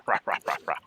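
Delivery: whispered rah rah; voicing the angry slicer; mock angry growling. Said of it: "And it's all mad at me now".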